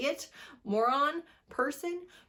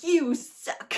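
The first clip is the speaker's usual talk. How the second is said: mocking whiny heroine; 6 semitones higher, 4 dB louder than usual. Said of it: "she's just like".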